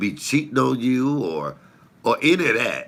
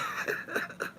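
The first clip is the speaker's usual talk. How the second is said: breathy laugh; 13 dB quieter than usual. Real, not acted. Laughing at memory.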